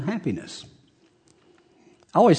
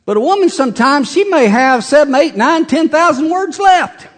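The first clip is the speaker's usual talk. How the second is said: rising count; 10 semitones higher than usual. Acted. Counting women's words rising.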